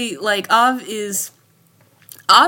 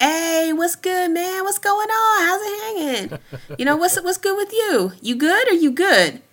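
casual black greeting; 11 semitones higher than usual. Retold or imitated. Greeting a black coworker, relaxed high casual voice. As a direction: greet your homie warmly and easy. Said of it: "you see your black coworker and you'd be like".

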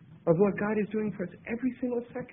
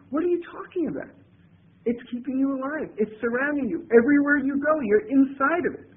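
higher, exasperated mock disbelief; baffled retort; 6 semitones higher than usual. Baffled reply again.

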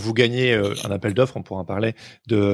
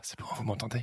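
asmr whisper; 14 dB quieter, faster than usual. Real, not acted. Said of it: "si je parle comme ça".

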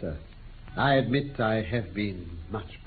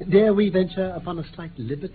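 mischievous glee; 6 semitones higher, 5 dB louder than usual. Acted. Holmes plotting a prank on lordship.

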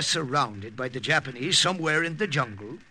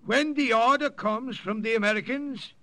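higher voice projected to a crowd; addressing the crowd; 7 semitones higher than usual. Acted. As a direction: speak up so all the warriors hear. Priest addressing assembled warriors.

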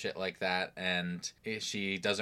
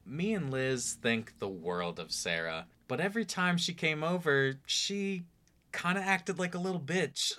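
quoting Peter's friend; 8 semitones higher than usual. Retold or imitated. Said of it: "He says".

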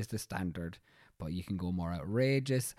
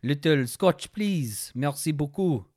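higher, louder, slow hammed-up French accent; 5 semitones higher, 6 dB louder, slower than usual. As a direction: play a cheesy Frenchman named in the pub. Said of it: "it'd be Pierre".

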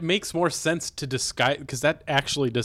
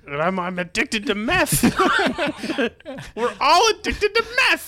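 demon voice; 12 semitones higher, 6 dB louder than usual. Pretend. Demon voices continuing the bit.

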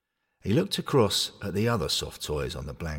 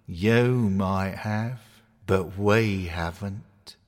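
gloomy bear; much slower than usual. Acted. Despondent bear replies.

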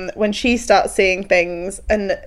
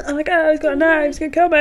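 mock screaming; 7 semitones higher, 3 dB quieter, faster than usual. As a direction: imitate a screaming crowd in a small high voice. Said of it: "everyone's screaming".

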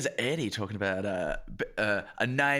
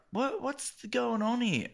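mock baffled director; 10 semitones higher, slower than usual. Imagines himself as director.

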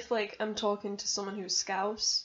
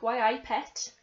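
mock Geordie; 3 semitones higher, 3 dB louder, slower than usual. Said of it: "keep saying, like".

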